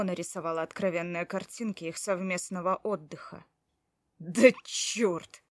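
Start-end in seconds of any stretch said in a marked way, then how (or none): 4.2-5.4 sharp, louder curse of frustration; muttered oath, a notch louder; angry curse. Acted. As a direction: spit out the curse in annoyance. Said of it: "чертыхнулся я".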